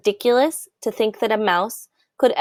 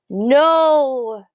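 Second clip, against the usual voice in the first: higher, louder sharp no; shouted; 5 semitones higher, 5 dB louder than usual. A narrator's reading. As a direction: cut Lester off. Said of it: "shouted the head mouse again".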